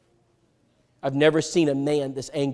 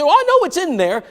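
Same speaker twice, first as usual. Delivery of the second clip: pitched way up and a bit louder, hedging; mock high evasive voice; 13 semitones higher, 5 dB louder than usual. Friend dodging the question, high mock voice. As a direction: play him squirming, voice jumping high.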